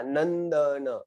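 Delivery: नंदन with a clear n before द; careful नंदन. Shown as a demonstration. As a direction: sound out नंदन with nasal n. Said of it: "ऐसा बोला". (नंदन साफ़ न के साथ)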